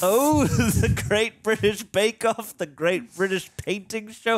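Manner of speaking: mock London accent. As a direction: relish each title as a fake Brit. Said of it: "you sound like you're from London".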